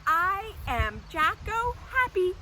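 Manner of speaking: bright, high and loud cheer; happy pretend voice. Shown as a demonstration. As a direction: show kids your happiest jack-o'-lantern voice. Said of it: "if you are Jack-o' happy".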